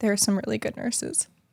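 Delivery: heartfelt, moved, emotional delivery. Telling a serious story about a hospital stay: getting emotional. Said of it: "I don't know why I'm getting so emotional".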